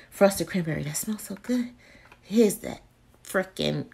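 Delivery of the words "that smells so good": soft whispered delight; savoring a smell. Real, not acted. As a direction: breathe it out, savoring. Sniffing a candle.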